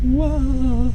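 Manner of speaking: high, drawn-out cartoon wah; funny high Italian squeal; Mario. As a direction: wail it way up high. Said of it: "it's the Mario wah".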